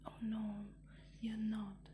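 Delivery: mother fox cutting her son off sharply. A narrator's reading. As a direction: snap it back at the cub in a hissed whisper. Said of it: "said his mother sharply".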